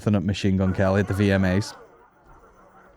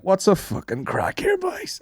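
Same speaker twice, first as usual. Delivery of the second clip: mock call to the promoters; 11 semitones higher, slower than usual.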